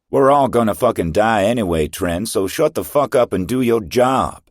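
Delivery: loud, high furious shout; hardcore order. Acted. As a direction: bark it down at her, swearing. Second in command barks order.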